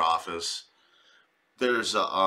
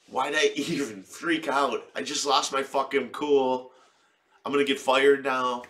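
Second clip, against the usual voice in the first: panicked office lady; 4 semitones higher, 4 dB louder than usual. Retold or imitated. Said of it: "She's like".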